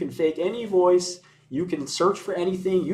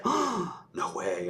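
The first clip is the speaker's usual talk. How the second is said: mock gasp; 4 semitones higher, 6 dB quieter, much slower than usual. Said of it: "And people gasp and say".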